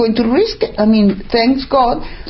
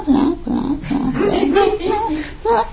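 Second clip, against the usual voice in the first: dismissive blah; 11 semitones higher, slower than usual. Real, not acted. Mocking dismissal of everything.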